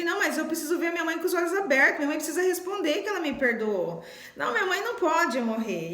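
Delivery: desperate pleading. Retold or imitated. Daughter in the hospital begging to see her mother's eyes open, desperate high plea. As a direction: beg as if your mother is dying tonight. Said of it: "E eu fiquei desesperada".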